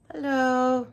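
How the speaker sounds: high hello to a cat; pet greeting. Real, not acted. Vlogger to the cat on the chair, pet greeting.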